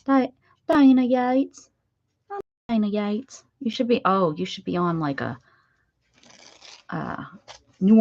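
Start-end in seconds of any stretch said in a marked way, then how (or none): 0.1-1.7 slow, higher Southern belle drawl. Acted. Crafter trying out Dana's name as a Southerner, Southern drawl. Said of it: "that Southern accent drawl". 2.3-3.4 mock Southern accent on the name; Southern belle. Crafter posing as Dana from New Orleans, Southern belle accent. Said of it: "Dana's a Southern belle".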